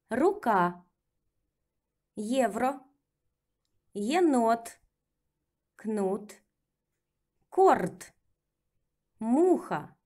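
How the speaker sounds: окно said slowly with first O like A; each word drawn out clearly; careful model reading; slow drill reading. Shown as a demonstration. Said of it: "let's practice with reading".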